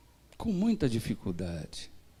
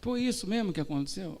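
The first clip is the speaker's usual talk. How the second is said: hushed reply; 6 dB quieter than usual. Retold or imitated. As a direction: drop the voice to confess.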